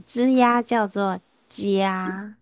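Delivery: 滋呀叫做加 slowly, stretching the ya in 加; emphasized ya glide. Shown as a demonstration. Teacher spelling out the sound for class, ya glide emphasized in 加. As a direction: draw out 加 so its ya glide is clear. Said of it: "特别强调一下呀给它".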